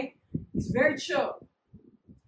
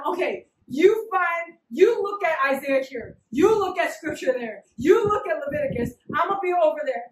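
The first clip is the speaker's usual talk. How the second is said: coaching; 2 semitones higher, 4 dB louder than usual. Retold or imitated. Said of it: "He doesn't do any of that".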